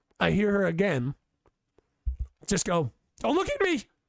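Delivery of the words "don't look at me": put-on, high, frantic, full panicked voice. Retelling what a woman said when she panicked, imitating her panicked voice. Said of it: "The level of panic in her voice".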